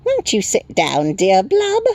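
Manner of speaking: very high, slow little creature; chirping Tiny. A narrator's reading. Tiny creature addressing the newcomer, high chirp. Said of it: "and chirped".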